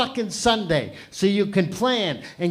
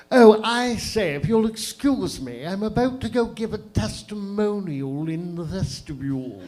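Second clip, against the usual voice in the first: mock British. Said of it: "something a British person would say".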